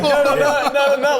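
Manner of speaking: mock excitement. Mimics excited reaction to baseball fight.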